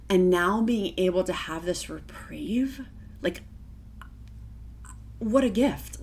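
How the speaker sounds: whispered and slow, close to tears; tearful whisper. Real, not acted. Thanking the medication, she whispers through tears. Emotional about gratitude.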